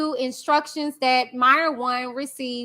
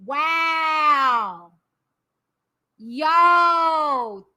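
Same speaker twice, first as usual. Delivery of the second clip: shocked. Real, not acted. Shocked by the document.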